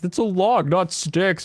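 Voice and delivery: high, whiny know-it-all voice; mocking nerd voice. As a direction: mimic a pedantic friend. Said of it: "He's like".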